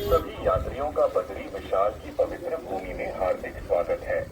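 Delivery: airport announcement. Real, not acted. Temple loudspeaker repeats announcement.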